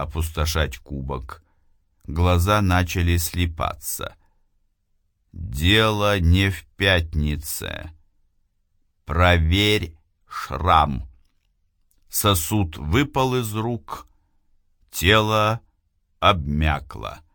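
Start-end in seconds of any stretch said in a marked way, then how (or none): 5.3-11.1 slow distant voice from beyond; slow eerie voice from nowhere; otherworldly voice. Acted. The unseen voice speaks again.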